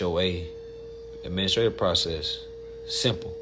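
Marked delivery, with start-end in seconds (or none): 2.9-3.4 a soft unvoiced aside; whispered then repeated; whispered simple. Real, not acted. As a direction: breathe the word out. Repeats word, first whispered.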